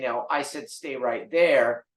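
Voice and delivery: slow, deliberate, no-nonsense order; firm command. Shown as a demonstration. Trainer showing owners how to order the dog, slow and firm. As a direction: plant each word like a stern trainer.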